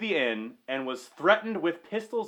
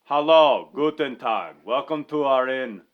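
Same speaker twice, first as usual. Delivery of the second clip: John Bender; 2 semitones lower, 5 dB louder than usual. Acted. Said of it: "The speaker's playing the part of John".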